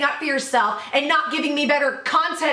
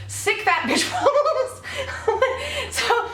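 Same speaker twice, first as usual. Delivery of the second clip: slow, higher, giggling self-mockery; laughing; 9 semitones higher, slower than usual. Real, not acted. Vlogger laughing after knocking over her pills. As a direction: laugh it out at yourself.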